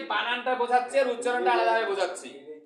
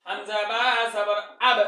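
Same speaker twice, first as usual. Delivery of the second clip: slow, stretched syllables for pupils to repeat; drawn-out spelling drill; 4 dB louder than usual. Shown as a demonstration. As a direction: spell it out slowly, holding the long vowel. Teacher models spelling for repetition. (টেনে টেনে ধীরে বানান করে পড়া)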